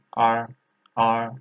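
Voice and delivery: "R" said as a Mandarin er sound; "R" as a standalone er syllable; read as R. Shown as a demonstration. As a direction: model the curled-tongue "R" by itself. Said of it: "but here we read".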